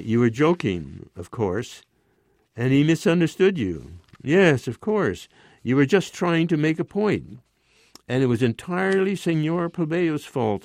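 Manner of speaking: rising, hurt and cool insistence. A narrator's reading. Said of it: "her voice rising".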